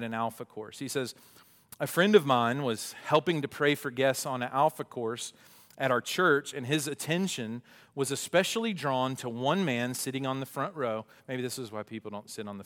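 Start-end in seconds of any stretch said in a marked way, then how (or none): 1.8-11.0 animated read-aloud from a book. Acted. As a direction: read the story out with clear emphasis. Reads book passage aloud.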